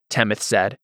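ordinary delivery

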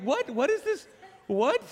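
very high, loud incredulous outburst; comic freak-out, pitch leaping up; mock panic. Younger sibling fearing demons smell blood, mock panic.

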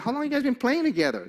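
high, fast, amazed asking; incredulous question. Retold or imitated. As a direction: fire it off high in disbelief.

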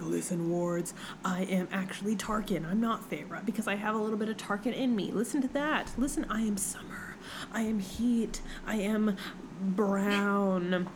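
soft, half-whispered mock incantation; a hushed, mock-solemn plea to the wards. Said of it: "and she's like".

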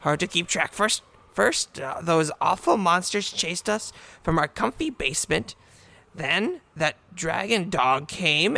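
raspy goblin chieftain, lightly voiced; hoarse bird voice. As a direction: croak like a bird with laryngitis. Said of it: "with a voice that sounds like a hoarse bird".

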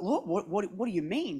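soft, near-whispered questioning; hushed bewilderment. Retold or imitated. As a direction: ask the Lord quietly, stunned. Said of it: "I was like".

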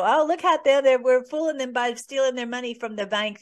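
imitating a smug scoffer; mocking gloat. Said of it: "where they laugh at us behind their backs".

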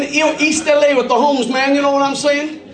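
imitating a would-be East LA rapper; mock homeboy swagger from a Cork lad; rapper wannabe. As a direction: play the lad posing as East LA. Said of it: "thought that he was a famous rapper".

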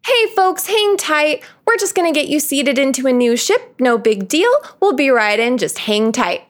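a light take on a cheery ride operator calming riders; loudspeaker announcer. Retold or imitated. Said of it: "somebody on the loudspeaker go".

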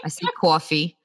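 "coffee" said the New York way, as "cawfee"; New York accent. Shown as a demonstration. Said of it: "your accent is part New Yorker".

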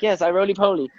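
put-on comic Borat-like Portuguese accent. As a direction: imitate broken English in a Portuguese accent. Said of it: "his Portuguese accent".

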